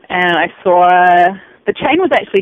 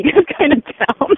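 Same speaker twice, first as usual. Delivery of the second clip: eager question; 6 semitones higher than usual. Retold or imitated. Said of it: "I'm really excited".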